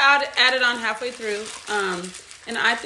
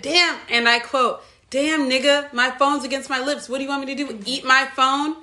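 annoyed retort; 2 semitones higher than usual. Retold or imitated. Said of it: "and he said".

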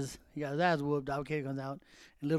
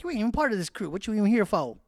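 Aladon impression; 5 semitones higher than usual. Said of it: "That's what Aladon sounds like".

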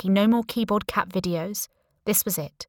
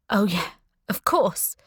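sarcastic. Acted. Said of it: "I said sarcastically".

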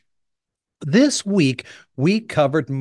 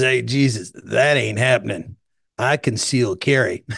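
Southern redneck; 4 semitones lower than usual. Retold or imitated. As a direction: put on a redneck Southern accent. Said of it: "Southern redneck guy".

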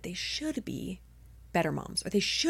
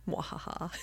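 evil laugh; 2 semitones lower, 10 dB quieter than usual. Pretend. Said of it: "Just kidding".

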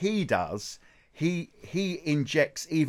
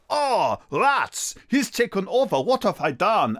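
mock defeated singer; 5 semitones higher than usual. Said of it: "And then she goes".

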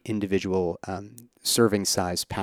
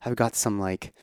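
worried insistence; 6 semitones higher than usual. Retold or imitated. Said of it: "But I was like".

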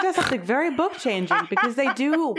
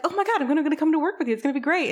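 higher, eager and gushing; giddy robot; 7 semitones higher, much faster than usual. Retold or imitated. The robot tells her he's coming to work. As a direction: bubble over with excitement. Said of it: "he's just like".

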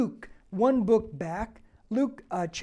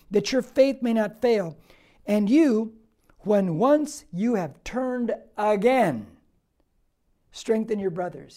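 loud preached verse; 6 dB louder than usual. Acted. Preacher continues verse, loud and slow.

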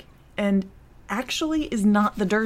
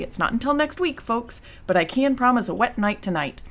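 small-town weatherman patter; tv weather report; 3 semitones higher than usual. Acted. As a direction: read it like the local TV forecast. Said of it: "That was so perfectly authentic, small town, uh, weather, weatherman".

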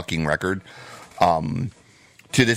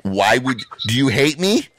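higher, louder wounded outrage; mock indignation; 5 semitones higher, 4 dB louder than usual. To the college friend who played him the band, mock wounded indignation. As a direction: demand to know what you did wrong.

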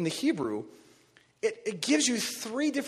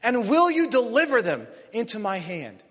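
David's prayer; 4 semitones higher, 5 dB louder than usual. Retold or imitated. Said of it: "and David prays".

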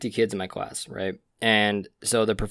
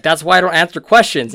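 imitating a sulky student; 6 semitones higher, 10 dB louder than usual. Classmate sulking after wrong answer.

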